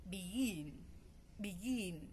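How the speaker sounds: "begin" with the weight on GIN; stress on second syllable. Shown as a demonstration. Teacher showing the stress in begin, "begin" stressed on GIN. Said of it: "at the second syllable".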